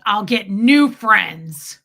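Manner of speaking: loud, slow, weighty; husband defending wife, loud and slow; firm declaration. Retold or imitated. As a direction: lay each word down hard. Fred firmly declaring.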